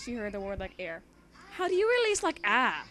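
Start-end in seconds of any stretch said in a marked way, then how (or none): 1.5-2.8 high, baffled question; amused disbelief at the wording; squeaky what-does-that-mean; incredulous. Real, not acted. Incredulous aside.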